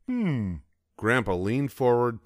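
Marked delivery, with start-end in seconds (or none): 0.1-0.6 suspicious hmm. A narrator's reading. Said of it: "growled suspiciously".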